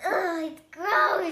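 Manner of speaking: slow, laughing groan of disgust. Real, not acted. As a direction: laugh through your disgust. Disgusted by grape popsicle.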